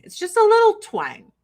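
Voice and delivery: lilting touch of Southern accent; light Southern twang. Shown as a demonstration. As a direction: put a little Kentucky twang on it. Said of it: "has a little twang".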